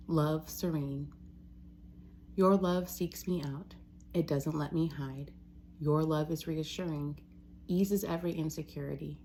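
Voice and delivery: measured, even poem reading with pauses between lines; poetry reading. Real, not acted. Reading own poem to listeners, measured and reverent. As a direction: read each line as verse, letting it settle. Reads own untitled poems.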